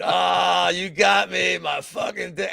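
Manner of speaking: drawn-out cry of mock pain; lightly hammed-up wounded fighter; Mike Jackson. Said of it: "Like Mike Jackson did".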